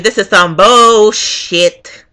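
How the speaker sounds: slow, drawn-out disgust; getting mad. Retold or imitated. Voter stuck waiting, getting mad. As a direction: stretch out the swear word. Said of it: "Now I'm getting mad".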